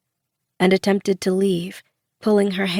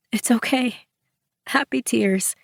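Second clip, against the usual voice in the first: trembling smile; 4 semitones higher, 3 dB quieter than usual. A narrator's reading. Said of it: "with a trembling smile".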